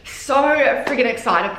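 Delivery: excited. Real, not acted. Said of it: "I am so friggin' excited".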